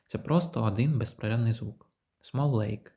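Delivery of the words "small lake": "Small lake" with one long l, no pause; linked small lake. Shown as a demonstration. Teacher showing one continuous sound. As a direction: hold the l through both words. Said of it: "Тут взагалі немає пауз".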